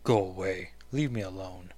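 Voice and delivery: low, deep-voiced brush-off. Rachel telling Kitty to leave, deep voice. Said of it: "why did I give her such a deep voice?".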